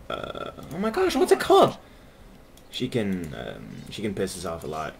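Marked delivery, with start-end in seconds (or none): 0.1-1.8 frustrated word search. Real, not acted. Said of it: "searching for word, frustrated".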